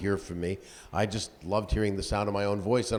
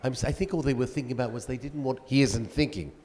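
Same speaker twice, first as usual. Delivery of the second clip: Orson Welles impression; 3 semitones higher than usual. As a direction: grumble at the director as Welles. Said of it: "my Orson Welles in mind".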